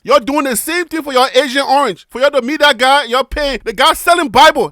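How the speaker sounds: lightly put-on Liberian English accent. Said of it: "You're gonna hear my Liberian voice today".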